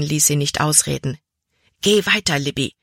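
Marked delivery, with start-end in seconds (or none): 1.8-2.8 warning. A narrator's reading. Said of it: "warnte er".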